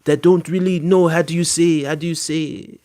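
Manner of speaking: halting mock foreign accent; imitated non-native English accent. Streamer imitating people unsure of their English, in a mock foreign accent. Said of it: "speaks English like this".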